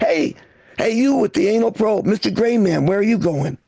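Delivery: rough local tough guy; Boston townie voice. Retold or imitated. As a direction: heckle like a street townie. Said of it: "a racist townie runs into".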